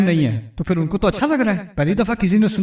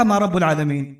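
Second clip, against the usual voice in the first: mock sarcastic; 3 semitones lower than usual. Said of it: "اس نے تنزیہ کہا تھا".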